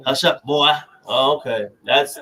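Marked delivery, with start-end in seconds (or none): 0.1-0.7 put-on Southern accent. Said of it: "he said it in a Southern accent".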